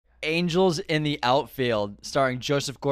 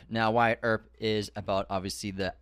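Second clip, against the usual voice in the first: slurred, drowsy speech; groggy from anesthesia; 4 semitones lower than usual. Real, not acted. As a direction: talk like you're half sedated. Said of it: "I'm talking weird right now".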